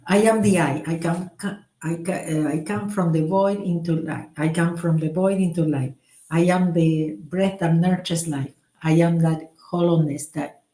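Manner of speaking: measured, meditative mantra reading; prayer recitation. Acted. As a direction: recite it as a calm devotional prayer. Restarts the prayer.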